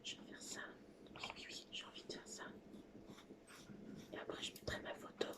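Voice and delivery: fast soft whisper. Real, not acted. Crafter whispering her plan to viewers. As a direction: whisper it quickly, mostly to yourself. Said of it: "Pourquoi je parle tout doucement".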